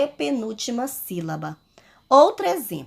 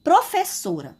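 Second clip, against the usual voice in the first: pupil asking; 6 semitones higher than usual. Pretend. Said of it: "vocês podem perguntar".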